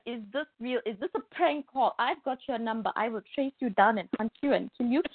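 hushed mock threat to a suspected prank caller; playfully threatening, kept soft; mock suspicion. Acting out a disbelieving phone reply.

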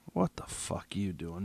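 unvoiced whisper of Stannis; whispered quote. Retelling Stannis asking what she is doing, whispered. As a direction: hiss the question softly.

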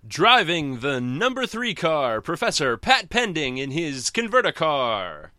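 loud, high, booming race announcer; Wacky Races announcer. Shown as a demonstration. Fan reviewing the comic does the cartoon's race announcer voice. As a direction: call the racers to the start line like a cartoon announcer. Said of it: "do my Wacky Races voice".

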